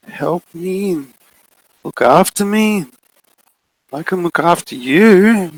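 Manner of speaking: guilt her into staying; pleading coaxing. Acted. Figure coaxing child.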